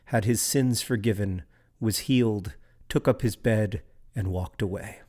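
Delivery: measured, unhurried poem reading; calm recital of a verse; poetry reading. Acted. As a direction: read it like a poet at a lectern. Reads a poem aloud.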